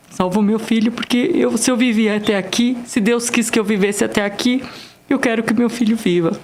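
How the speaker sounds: a touch of begging for her son's life; retold pleading. Retold plea to doctor for son.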